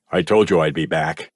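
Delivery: a hint of a low, cold captor; menacing man. A narrator's reading. Grandfather returns to the bunker, lightly menacing. Ronald speaks.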